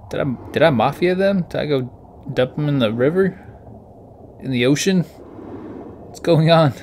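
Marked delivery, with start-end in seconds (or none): 2.3-6.7 very slow, drawn-out bewildered question; confused. Real, not acted. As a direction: stretch it out, baffled. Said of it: "I'm so confused".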